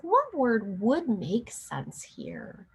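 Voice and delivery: put-on slow, patient teacher question to a child; slow teacher prompt. Shown as a demonstration. Teacher demonstrating a context prompt for a struggling reader, slow and patient. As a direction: ask "What word would make sense here?" slowly and gently. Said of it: "you might ask".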